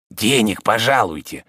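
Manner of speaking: plain reading voice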